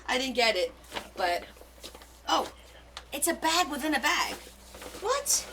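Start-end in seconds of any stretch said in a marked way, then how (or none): 2.3-5.5 high delighted surprise; squealing with surprise at the find; surprised squeal. Real, not acted. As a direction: gasp it out, amazed. Surprised unboxing discovery.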